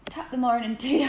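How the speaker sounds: light mock-Irish greeting; half-hearted Irish accent. Shown as a demonstration. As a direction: try a stock Irish phrase in the accent. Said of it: "Can you attempt the Irish accent".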